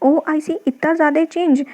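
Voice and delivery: a touch of acted amazement; astonished. Shown as a demonstration. Teacher repeating her surprise mnemonic, mildly astonished. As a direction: act lightly taken aback. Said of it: "जब कभी बहुत आश्चर्यचकित होते हैं".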